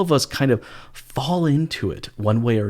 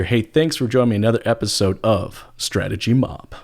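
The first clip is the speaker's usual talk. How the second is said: big hyped-up radio host intro; radio announcer voice; 3 dB louder than usual. Acted. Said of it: "in my announcer type voice".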